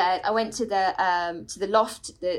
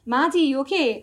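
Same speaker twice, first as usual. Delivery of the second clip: put-on Irish accent; 3 semitones higher, 4 dB louder than usual. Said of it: "Can I make her Irish?".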